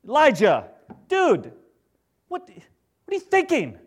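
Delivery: loud, high, exasperated call to Elijah; exasperated shout. Pretend. God shouting at Elijah, exasperated. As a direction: yell it like a fed-up friend. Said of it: "how would God respond?".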